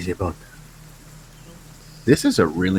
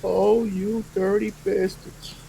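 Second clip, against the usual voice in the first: put-on old-timey gruff; 12 semitones higher, slower than usual. Mock gangster line.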